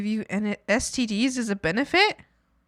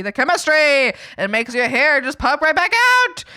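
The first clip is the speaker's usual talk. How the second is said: louder, higher, selling it hard; hyped sales pitch; 6 semitones higher, 7 dB louder than usual. Retold or imitated. Mocking the saleswoman's pitch to mom, hyped up. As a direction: gush like a miracle-cure saleswoman.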